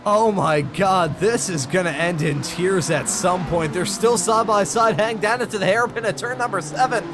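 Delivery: excited side-by-side race call; motorsport commentator. Real, not acted. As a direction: narrate the wheel-to-wheel fight. Live race play-by-play.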